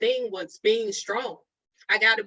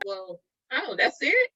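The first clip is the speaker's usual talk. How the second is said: mock surprise; 3 semitones higher than usual.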